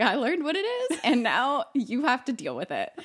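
retold righteous declaration. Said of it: "little wave of feminism".

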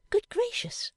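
high breathy gasp of alarm; Fanny suddenly remembering her sister; cried out as Fanny. A narrator's reading. Fanny cries out in sudden alarm. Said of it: "cried Miss Fanny all at once".

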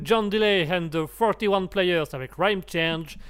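band name in a careful English accent; slow, deliberate English accent. Shown as a demonstration. French host proudly putting on an English accent. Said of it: "je fais les accents anglais".

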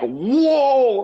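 high, amazed whoa; surprised. Retold or imitated. Reacting to the movie twist, amazed whoa. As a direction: gasp out the twist. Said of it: "it's like".

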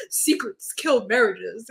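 dark, grave parent. Retold or imitated. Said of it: "your parents are over here, like".

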